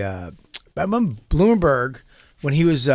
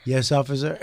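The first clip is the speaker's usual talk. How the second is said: mock polite. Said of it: "he goes".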